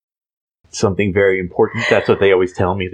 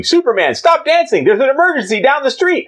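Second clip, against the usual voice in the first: yelling editor. Acted. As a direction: shout orders across the room. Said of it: "Perry White in the background going".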